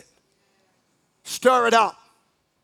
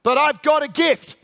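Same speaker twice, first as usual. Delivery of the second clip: higher and louder, pleading claim; insistent inner voice; 6 semitones higher, 6 dB louder than usual. Acted. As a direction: push back like someone proving himself. Inner voice, therapist dialogue.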